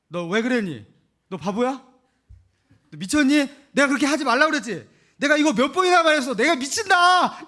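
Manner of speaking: rising from sharp questions to a hammed-up shriek; nagging parent. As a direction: play the exasperated mom yelling at her kid. Parent scolding child, acted.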